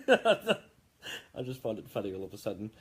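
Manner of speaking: fighting off the giggles; barely holding laughter. Real, not acted. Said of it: "before I completely lose it".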